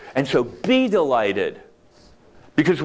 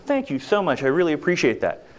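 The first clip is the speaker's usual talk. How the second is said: sincere thanks. Shown as a demonstration. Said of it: "magic words".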